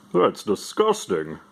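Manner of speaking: slow, disgusted groan of a line; slow mock disgust; disgusted reaction. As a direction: drag it out in disgust. Character reacting in comic.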